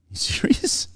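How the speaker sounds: breathy disbelieving whisper; hearing mum refuse to press charges, whispered disbelief; incredulous whisper. Retold or imitated. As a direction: mouth it in stunned disbelief. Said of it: "I'm there going".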